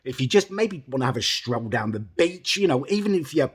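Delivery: lightly voiced calm coaxing, barely changed; retold calm coaxing. Soothing an angry guest at the door, mild calm tone. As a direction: coax him gently, mildly. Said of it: "I try really calmly and say".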